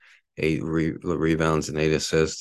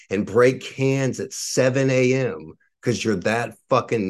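higher-pitched, heated tirade; angry rant; 3 semitones higher than usual. Real, not acted. Ranting to podcast listeners about the can-collecting neighbor, heated. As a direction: vent your outrage without letting up.

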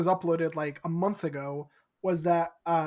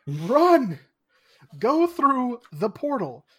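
louder, higher mock yell; yelling at characters; 5 semitones higher, 7 dB louder than usual. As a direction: shout at them to go. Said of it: "yelling at characters".

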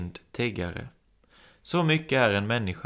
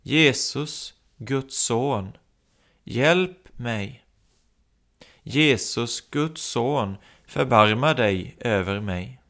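calling out; 2 semitones higher, slower than usual. Acted. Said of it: "Och så börjar han ropa".

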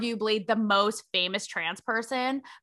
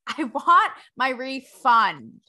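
drawn out through a laugh; laughing, slow; 5 dB louder, slower than usual. Real, not acted. Host joking about the No Fun Club, slow and laughing. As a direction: savour the joke, laughing.

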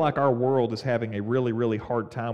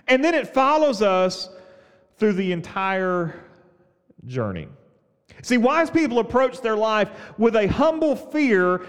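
preaching; 10 semitones higher, 6 dB louder than usual. Acted. Preaching at full force.

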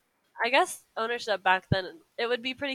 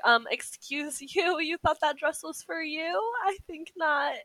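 higher-pitched, mock-indignant stepmother; haughty put-down; 9 semitones higher than usual. Lady Tremaine refusing Ella a dress, haughty put-down. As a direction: draw out the opening in disdainful disbelief.

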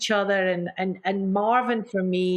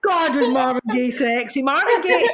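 swooning, higher and louder; breathless fan rapture; gushing excitement; 5 semitones higher, 5 dB louder than usual. Real, not acted. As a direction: rave about him like a starstruck fan. Gushing over a singer.

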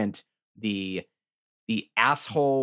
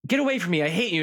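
higher, a hammed-up get-away yell; mock angry rejection; 5 semitones higher, much faster than usual. Woman pushing away the man who hit her, mock angry. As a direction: toss him off in mock fury. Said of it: "And she's like".

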